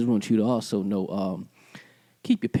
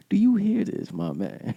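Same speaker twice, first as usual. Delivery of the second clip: playful put-on seductive voice; a hint of late-night seducer; sexy voice. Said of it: "Not in this sexy voice".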